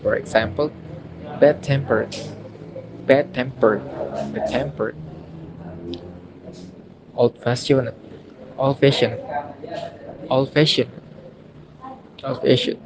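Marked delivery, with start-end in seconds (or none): 1.4-4.9 "bad tempered" with TEM stressed; careful teacher's "bad tempered", weight on TEMpered; stress on second part. Shown as a demonstration. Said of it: "the stress is on the second part". 7.2-12.8 put-on "old-fashioned" with FASH stressed; careful teacher's "old-fashioned", weight on FASHioned; stress on second part. Shown as a demonstration. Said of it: "the stress is on the second part".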